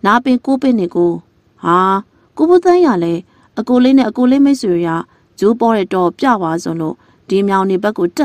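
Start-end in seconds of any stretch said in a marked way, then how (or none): 2.4-4.9 surprised greeting. Acted. Villager meeting the young man, pleasantly surprised. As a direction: greet him with happy surprise.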